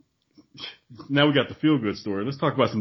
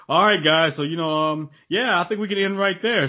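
higher, hesitant mock wrap-up voice; mock show producer; 5 semitones higher, 3 dB louder than usual. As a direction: act the presumptuous guest winding things up. Mimics guest taking over the show.

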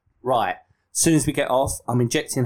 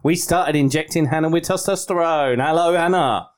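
pretend podcast intro; 2 semitones higher than usual. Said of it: "pretend that we've done it. Ready?".

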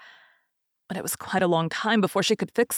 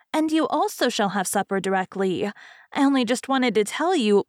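lightly voiced fairy, a little higher; chatty fairy; 4 semitones higher than usual. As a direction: give a hint of a talkative fairy hostess.

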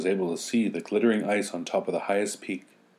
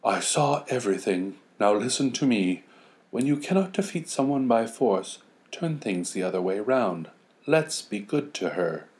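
witch voice; 3 semitones higher than usual. Acted. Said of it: "She came at once and said".

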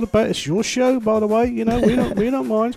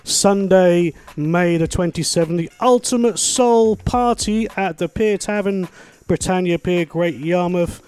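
upbeat radio promo voice; radio ad read; slower than usual. Acted. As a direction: read it like a lively local radio ad. Reads event ad fast.

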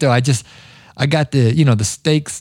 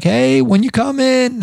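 impatient customer; 9 semitones higher than usual. Retold or imitated. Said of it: "customers are checking in like".

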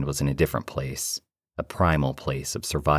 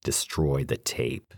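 cold command; 4 dB quieter, slower than usual. Acted. Entity gives command.

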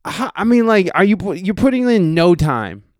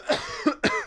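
voice-cracking cough; 9 dB quieter than usual. Real, not acted. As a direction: cough as the high voice breaks. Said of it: "See, I can't even do it".

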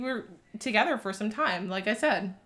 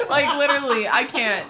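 high laughing words; can't stop laughing; giggling through the words; 3 semitones higher, 4 dB louder than usual. Real, not acted. Laughing at red flags.

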